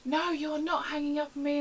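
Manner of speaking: mock outrage, high and loud; hammed-up indignant refusal; angry caller. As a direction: imitate an indignant customer refusing to let go. Angry caller refuses to end call.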